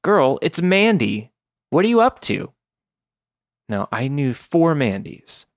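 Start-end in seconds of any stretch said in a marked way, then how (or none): 0.0-2.5 put-on high, bubbly valley girl; chirpy, upbeat girly voice. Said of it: "none sounded like a valley girl on uppers".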